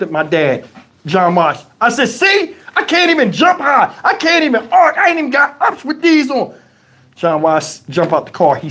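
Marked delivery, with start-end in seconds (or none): 2.1-6.5 laughing excuse. Retold or imitated.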